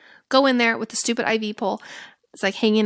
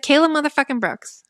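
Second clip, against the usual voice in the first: hyped shout; 7 semitones higher, 5 dB louder than usual. Retold or imitated. Shouted hype answer.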